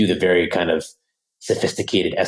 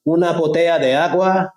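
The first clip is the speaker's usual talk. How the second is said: confident learner; 9 semitones higher than usual. Pretend. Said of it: "You're like".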